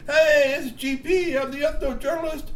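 high bright quick introduction; high chirpy G P voice. A narrator's reading. G P on the video greeting viewers, high and chirpy. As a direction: chirp out a hello. G P on playback.

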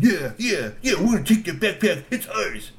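high eager sidekick; eager Rocky. Acted. Rocky backing Grassy's plan, high eager. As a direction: chime in eagerly.

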